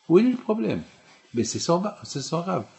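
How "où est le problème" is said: much higher and louder, pressing the question; insistent outcry. Real, not acted. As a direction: hurl the question at the congregation. Rhetorical question repeated rising. (question martelée, plus aiguë et plus forte)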